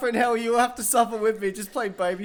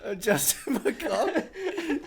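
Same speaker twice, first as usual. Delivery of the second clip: slow laughing; 2 semitones higher, 3 dB quieter, much slower than usual. Real, not acted. Slow drawn name through laughter.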